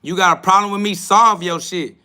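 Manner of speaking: heated call-out to a viewer; angry challenge. Real, not acted. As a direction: dare him to come solve it. Challenging a troll on live.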